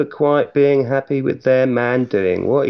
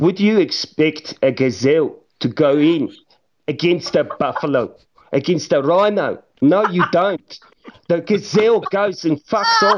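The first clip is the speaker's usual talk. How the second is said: Afrikaans accent, pitched up; 5 semitones higher than usual. On a podcast, the speaker does a bit in an Afrikaans accent. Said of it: "in a Afrikaans accent".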